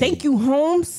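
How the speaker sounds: slow, lightly put-on California surfer accent; a hint of a California accent, playful. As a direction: drawl a laid-back California thank you. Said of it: "I'm trying to do the accent for each state".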